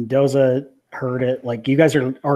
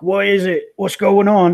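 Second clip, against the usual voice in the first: put-on alarmed girls' voices; 8 semitones higher, 6 dB louder than usual.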